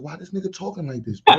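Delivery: laughing disbelief; a laughing aside. Retold or imitated. Retelling his own reaction.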